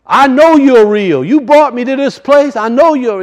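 high, loud retold cry to God; imitated screaming. Man on a levee giving it all to God, imitated screaming. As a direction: act out the man's scream, pitched high. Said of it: "I mean, screaming".

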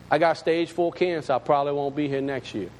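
low, understated retelling of bad news; matter-of-fact. Hunter breaking cancer news to an acquaintance, matter-of-fact. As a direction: imitate him dropping it casually. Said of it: "Just like that".

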